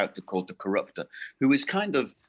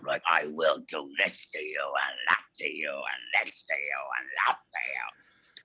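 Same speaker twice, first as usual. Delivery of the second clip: low growling villain voice; low menacing growl, ending in a whisper; 6 semitones lower, 4 dB quieter than usual. Retold or imitated. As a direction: growl it out like a wicked snake villain. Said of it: "growling away at these people".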